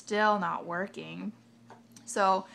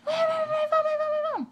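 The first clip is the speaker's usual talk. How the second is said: much higher, louder frantic plea; imitating tweaker lady; 7 dB louder than usual. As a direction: whine for the phone like a desperate addict. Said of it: "the lady's like".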